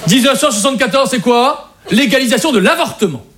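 measured, declarative history-report reading; reading out an exposé. Acted. Comedian presents women in history to the group, reading aloud. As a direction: read it out like a prepared presentation. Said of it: "on m'a demandé de lire un exposé".

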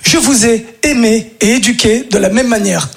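slow, deliberate mother's line; mother's solemn line. Retold or imitated. Mother telling her sons, slow and deliberate. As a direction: spell it out slowly, eyes locked. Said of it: "elle nous a dit cette phrase".

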